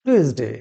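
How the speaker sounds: টুয়েসডে as the teacher's careful model; corrected Tuesday. Shown as a demonstration. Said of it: "কি হবে?". (টুয়েসডে-র সঠিক উচ্চারণ দেখানো)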